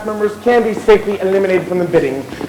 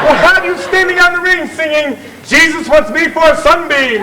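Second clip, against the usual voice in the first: mock threat; 5 semitones higher than usual. Chairman threatens noisy audience.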